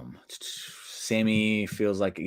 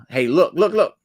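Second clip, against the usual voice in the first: LA Knight; 8 semitones higher, 8 dB louder than usual. Retold or imitated. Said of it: "Says, uh".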